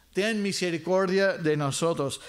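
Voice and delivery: "Ten" pressed with urgency, a slight lift; urgent plea. Shown as a demonstration. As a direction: beg for mercy right now. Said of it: "sino de urgencia". (súplica urgente)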